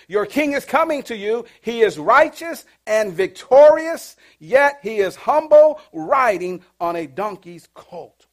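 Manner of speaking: slow proclamation, swelling then settling; declamatory scripture reading. Acted. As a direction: build through the verse, then ease down. Reads scripture aloud.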